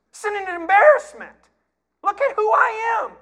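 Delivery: high, loud scornful brag; boastful giant. Retold or imitated. Goliath mocks God for sending a small boy, scornful. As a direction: sneer at the little shepherd.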